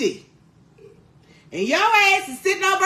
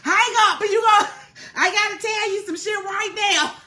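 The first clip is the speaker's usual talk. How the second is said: louder, insistent hang up demand; mock urgent yelling; 5 semitones higher, 3 dB louder than usual. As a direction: shout at her to drop the other call. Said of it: "call friend, demand they hang up".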